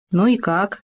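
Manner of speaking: mildly good-natured question. A narrator's reading. Хома checks on the gopher's smiling, good-natured. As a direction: ask it kindly, with a touch of good nature. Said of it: "добродушно спросил Хома".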